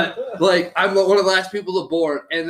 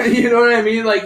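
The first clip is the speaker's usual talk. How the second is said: laughing; 6 semitones higher, 5 dB louder than usual. Real, not acted. Laughing at the pilot's reversal.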